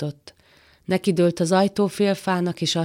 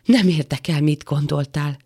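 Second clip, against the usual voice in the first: mildly raised, cutting retort; narrated angry shout; 3 dB louder than usual. Acted. Woman rejects the man's excuse, mildly shouting. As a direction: cut off the excuse, louder at first. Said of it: "kiáltotta a nő".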